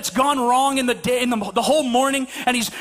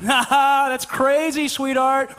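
slow fake chuckle and hollow reply; feigned interest; much slower than usual. Husband not listening to wife, slow feigned amusement. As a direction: draw it out, pretending to listen. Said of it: "We're not listening at all".

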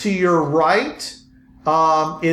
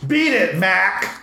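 gruff voice; slower than usual. Acted. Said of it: "a gruff voice say".

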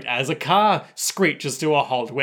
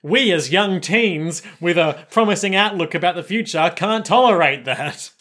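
earnest Koichi; 4 semitones higher, 4 dB louder than usual. Retold or imitated. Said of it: "Koichi's like".

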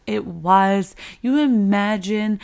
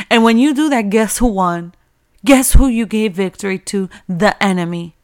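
forceful preaching; 6 dB louder than usual. Real, not acted.

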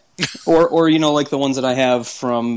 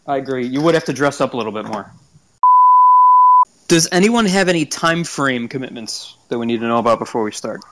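on speakerphone. Real, not acted. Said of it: "you're on speakerphone or something".

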